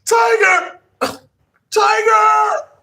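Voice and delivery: loud high yell across a distance; calling out. Acted. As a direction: shout the name to find him. Calling out for the lost dog.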